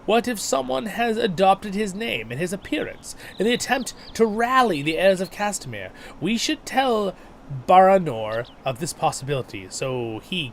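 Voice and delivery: urgent, questioning game character; NPC voice. Acted. Second NPC speaks, higher.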